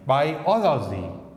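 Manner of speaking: बाई ओ ल जी slowly split into syllables. Shown as a demonstration. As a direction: break बाई ओ ल जी apart slowly. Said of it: "यहाँ stress है". (बाई ओ ल जी धीरे-धीरे, अलग-अलग)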